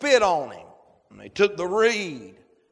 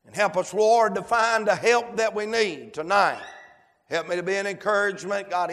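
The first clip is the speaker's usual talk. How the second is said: Southern pulpit prayer, fervent then subsiding; public prayer. Real, not acted. Leads the congregation in prayer.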